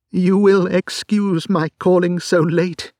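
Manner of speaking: apologise, barely holding together; lady in a black veil, strained; distressed lady. Acted. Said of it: "she began".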